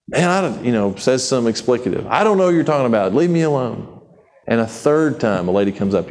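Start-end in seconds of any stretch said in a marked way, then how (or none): 2.1-3.9 hurried angry denial. Retold or imitated. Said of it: "Now he starts cussing".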